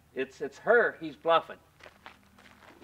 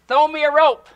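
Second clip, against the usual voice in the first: retold shout up from the shaft, higher and louder; a real-sounding holler for a rope; shouting for help; 10 semitones higher, 11 dB louder than usual. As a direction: yell it up like you're stuck down a hole. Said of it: "I said".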